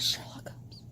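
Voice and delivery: hushed whisper of conviction. Real, not acted. Fan telling viewers the only true ship, whispered. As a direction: whisper it like sacred truth.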